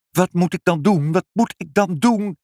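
high-pitched frantic question, rising on the repeat; crying out helplessly. A narrator's reading. Father asks mother what to do, frantic cry. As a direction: call out high, at a loss. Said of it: "riep vader".

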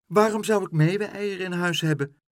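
baker's wife sounding affronted; indignant baker's wife. A narrator's reading. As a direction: act offended by the silly request. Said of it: "vroeg de bakkersvrouw".

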